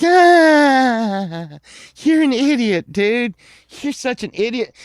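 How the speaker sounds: high, loud mocking laughter; re-enacted boyish ridicule; kids jeering. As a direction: jeer like boys cracking up at a fool. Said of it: "we're like".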